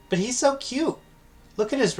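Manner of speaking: gushing cute voice. Acted. Mia gushing over the monster.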